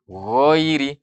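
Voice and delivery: GHAIRI heavy, rounded toward GHOIRI; tebalkan. Shown as a demonstration. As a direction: raise the tongue root on GHAIRI. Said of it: "kalau kita tebalkan". (GHAIRI dibaca tebal)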